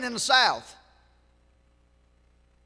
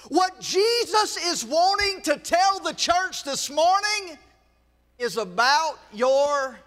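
preaching; slower than usual. Acted. Preacher building his point.

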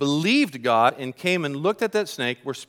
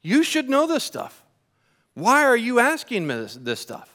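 high, fast, exasperated rebuke; scolding; 5 semitones higher than usual. Acted. Jesus scolding Nicodemus for not knowing, exasperated and high. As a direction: tell off a teacher who should know better. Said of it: "Jesus kinda scolds him a bit".

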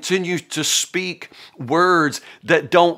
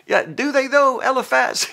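sceptical retort; 10 semitones higher than usual. Real, not acted. Retorts to Eliphaz.

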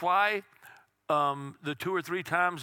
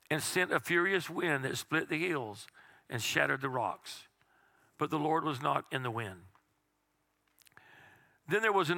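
scripture reading. Acted. Reading scripture aloud to congregation.

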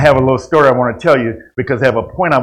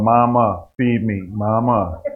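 put-on whiny baby voice; slower than usual. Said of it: "sucking their thumb and talking about".

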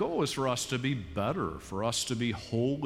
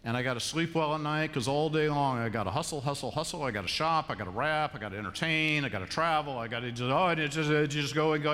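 mock frantic rush; 2 semitones higher, faster than usual. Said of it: "You're thinking".

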